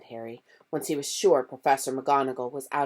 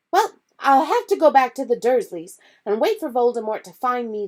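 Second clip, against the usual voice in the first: higher, louder impassioned plea; desperate boy making his stand; passionate Harry; 10 semitones higher, 6 dB louder than usual. Acted. Harry convincing Ron and Hermione, loud and impassioned.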